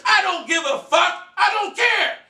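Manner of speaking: high, emphatic shout of defiance; defiant outburst. Retold or imitated. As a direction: shout it stubbornly, pitch jumping up. Defiant about mother's complaint call.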